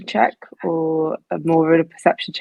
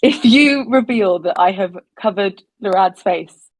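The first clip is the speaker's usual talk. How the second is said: menacing threat; 2 semitones higher, 4 dB louder than usual. Acted. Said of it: "hold it to your throat, and say".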